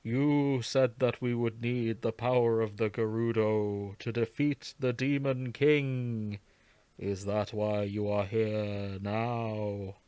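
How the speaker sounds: put-on slow, stately old sage greeting; a lightly voiced ancient chief, measured and slow.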